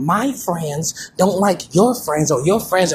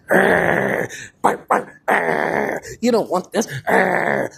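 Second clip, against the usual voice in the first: dog growl; 2 semitones lower, much slower than usual. Pretend.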